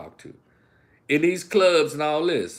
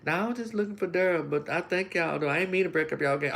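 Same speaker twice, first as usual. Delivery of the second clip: sweet apologetic woman; 5 semitones higher, 3 dB quieter, faster than usual. Retold or imitated. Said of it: "But a sweet woman come up there".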